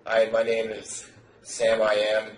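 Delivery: slow, flat, mock-timid self-intro; flat monotone imitation. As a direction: imitate a flat, expressionless guy, slowly. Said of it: "they're just very flat like this".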